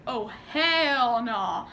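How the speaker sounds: very drawn-out mock refusal; imitating mom's indignation. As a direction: stretch it out slowly like an indignant mom. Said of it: "the way my mom is, she was like".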